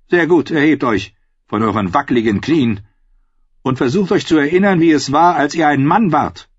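contemptuous dismissal; queen mocking the old man; scornful queen. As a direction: sneer at his weakness. Queen mocks kneeling maester.

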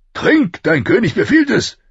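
imperious command. A narrator's reading. King overruling Ned's refusal to drink, imperious. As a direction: insist forcefully, pulling rank.

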